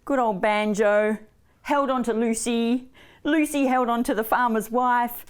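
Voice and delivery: put-on children's storytelling. A narrator's reading.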